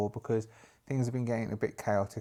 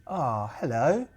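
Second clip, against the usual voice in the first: attempted Jamaican accent; slower than usual. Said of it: "I can't do a Jamaican accent".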